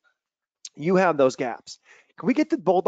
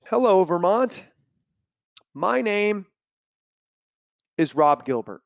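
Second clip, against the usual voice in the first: imitating a stilted speaker reading from notes; mock reading off paper, long pauses; halting speech reader; 4 semitones higher, slower than usual. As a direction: read out a greeting in stiff, halting chunks. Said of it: "he takes this piece of paper out".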